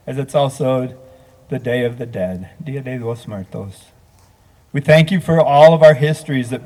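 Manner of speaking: measured, reverent prayer voice. Acted. Minister praying over Todd's memorial gathering, reverent. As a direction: lead the mourners in prayer, steady and solemn.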